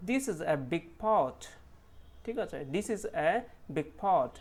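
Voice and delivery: each word slow, pot clear; slow sentence demo. Shown as a demonstration. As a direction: read it out slowly for learners. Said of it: "ও sound".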